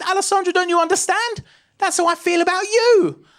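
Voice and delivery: hammed-up sobbing declaration; tearful confession. Crying confession retold.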